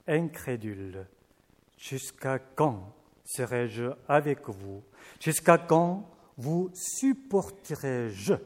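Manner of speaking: measured, solemn Bible reading; scripture reading. Acted. Preacher reads the Gospel to the congregation, solemnly. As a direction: read the passage like a lector.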